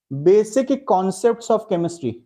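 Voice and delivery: very slow, every word drawn out for note-taking; slow dictation. Shown as a demonstration. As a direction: dictate the chapter title at writing speed. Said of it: "heading लिखने के बाद pen down कर देंगे".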